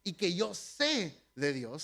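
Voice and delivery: put-on slipping into a slight Spanish accent; a hint of a Spain Spanish accent, unplanned; half Spanish accent. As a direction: acento medio español, sin querer. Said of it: "Se me salió el acento así medio español".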